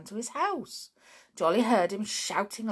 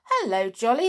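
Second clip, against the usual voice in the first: cried out; 3 semitones higher, 7 dB louder than usual. Acted. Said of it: "they cried".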